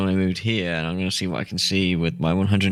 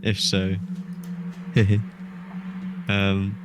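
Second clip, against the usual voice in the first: through a vent. Acted. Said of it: "I'm gonna shout through the vents".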